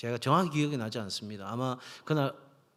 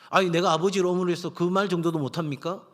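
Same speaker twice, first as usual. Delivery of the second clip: louder, slightly raised, protesting; indignant parent's protest; 4 semitones higher, 5 dB louder than usual. Acted. Parent objecting to the preacher about nagging, indignant. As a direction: push back like an affronted parent.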